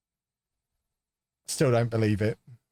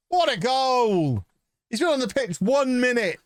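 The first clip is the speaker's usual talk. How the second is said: excited shout; 11 semitones higher than usual. Real, not acted. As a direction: yell at the screen, thrilled. Celebrating the goal.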